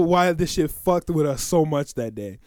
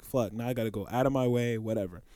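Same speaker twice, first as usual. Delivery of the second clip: muttered annoyance; 9 semitones lower, 12 dB quieter than usual. Retold or imitated. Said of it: "I'm like".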